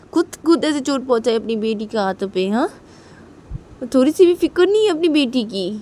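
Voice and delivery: high, loud angry scolding. Acted. Wife berating husband over daughter's injury, loud and high. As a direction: rip into him for hurting his daughter. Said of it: "ठीक बोलती कि".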